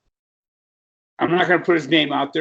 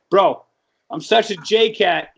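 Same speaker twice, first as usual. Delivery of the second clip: J-Cat voice; 3 dB louder, slower than usual. Retold or imitated. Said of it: "couldn't quit talking like that".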